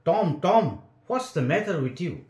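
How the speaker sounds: gasping in alarm. A narrator's reading. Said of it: "gasped out".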